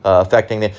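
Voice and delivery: understated impression of a well-schooled man lecturing on economics; mock educated speaker. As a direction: mimic a refined, lecturing college man, barely shifting the voice. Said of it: "He could talk like this".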